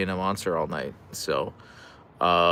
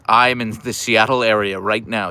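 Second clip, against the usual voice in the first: slow, louder, ominous read; 6 dB louder than usual. Retold or imitated. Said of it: "You said that quite ominously".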